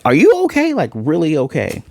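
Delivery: high, anxious pleading check-in; worried asking. Retold or imitated. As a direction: squeak it out like a frightened friend. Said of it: "this one's not much different than the other one".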